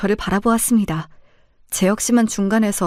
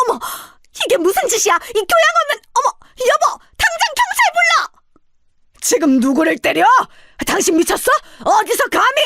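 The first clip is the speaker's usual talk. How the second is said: shrill, much higher, near-crying shrieks; hysterical screaming; 12 semitones higher than usual. Acted. Mother-in-law slapped by the bride's father, shrieking hysterically. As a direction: scream for help like she's been wronged.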